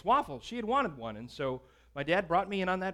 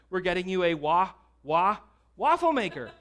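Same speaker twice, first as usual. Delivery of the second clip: blurting the secret through a laugh, a bit louder; laughing tease; 6 dB louder than usual. Retold or imitated. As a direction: giggle out the surprise like a kid who can't hold it. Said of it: "And I said".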